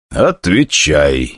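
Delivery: very slow, flat, soulless command; machine-like voice. Acted. Stronger to the summoner, slow and machine-like. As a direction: speak like an unfeeling machine. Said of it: "похожим на бездушную машину".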